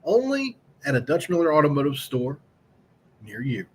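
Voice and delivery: upbeat, brisk car dealer ad read. Acted. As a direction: sell it like a radio spot. Reads sponsor ad.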